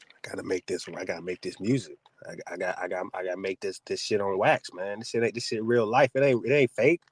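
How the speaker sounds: a hint of a defensive son; mock rapper son.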